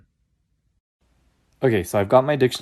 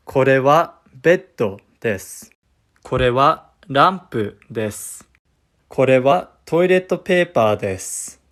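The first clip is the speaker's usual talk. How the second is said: Japanese accent; 6 dB louder than usual. Shown as a demonstration. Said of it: "English with a Japanese accent".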